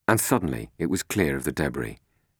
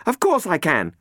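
higher, louder self-assured reply; confident retort; 14 semitones higher, 5 dB louder than usual. Acted. Robin answering Catherine while flying, confident. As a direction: answer coolly, eyes on controls.

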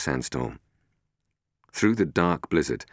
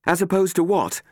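higher, louder dry comeback; dry retort; 14 semitones higher, 4 dB louder than usual. Acted. Robin answering Catherine without looking back, dry. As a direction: toss it over your shoulder, dry. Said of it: "Robin said without looking back".

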